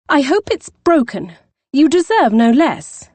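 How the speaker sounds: high, loud spiteful jab; angry retort. Acted. Poppy to the injured Scot, spitefully angry. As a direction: spit it at him with relish. Poppy scolds the hurt man.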